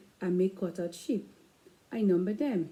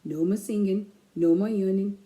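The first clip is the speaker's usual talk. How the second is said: firm, louder mom; stern mom; 5 dB louder than usual. Acted. Mom scolding the children to bed, firmly. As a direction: lay down the law. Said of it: "Mom says".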